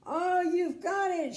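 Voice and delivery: very high, loud giggly cheer; giggling. Acted. Little Miss Sunshine cheers the king, high giggle. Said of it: "she giggled".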